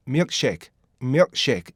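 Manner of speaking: milkshake with a stopped k before shake; k held back. Shown as a demonstration. Teacher shows the k inside a phrase, stopped pronunciation. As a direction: say "milkshake" as myuk-shake, k unreleased. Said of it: "이렇게 되는 거죠".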